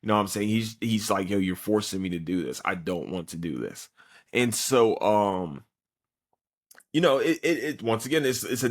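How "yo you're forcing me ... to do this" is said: laid-back, reluctant delivery, sinking lower; understated, unwilling captain; nonchalant captain. Acted. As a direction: shrug it off, pitch and volume dropping at the end. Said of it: "he's nonchalant".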